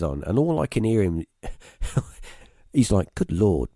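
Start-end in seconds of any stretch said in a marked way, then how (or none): 3.1-3.7 astonished dad. Retold or imitated. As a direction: play the stunned father swearing under his breath, then gasping. Dad stunned at the binoculars.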